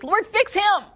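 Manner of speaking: high, pleading mock prayer; hammed-up desperate plea; whiny prayer. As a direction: whine it up at God like a frustrated wife. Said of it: "it sounded something like this".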